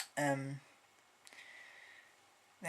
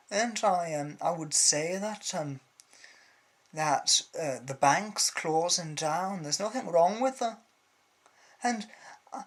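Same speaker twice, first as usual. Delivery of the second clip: loud, halting, hammed-up politician voice full of ums; mocking Gordon Brown; 2 semitones higher, 5 dB louder than usual. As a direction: parody a dithering prime minister, louder. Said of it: "Gordon Brown going".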